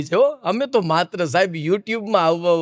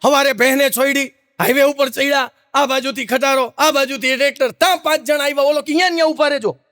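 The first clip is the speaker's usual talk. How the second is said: even faster retelling; 5 semitones higher than usual. Retold or imitated. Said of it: "વધારે speed વધારી".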